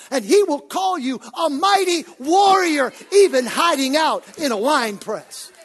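rising, loud preacher's build; preaching. Acted. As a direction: preach it with mounting fire. Preaching at full force.

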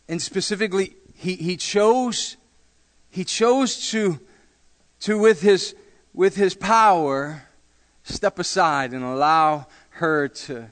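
slow, drawn-out preacher emphasis, high and strong; slow preaching. Acted. Pastor preaching to the church about God, slow and emphatic. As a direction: lean into each word like a preacher.

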